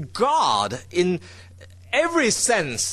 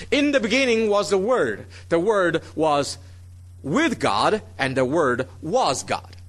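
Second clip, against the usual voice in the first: "with" and "was" punched, unhurried; stress on with and was. Shown as a demonstration. Preacher showing the usual English reading, stress on "with" and "was". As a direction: lean on "with God" and "was God". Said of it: "we emphasize "with" and "was".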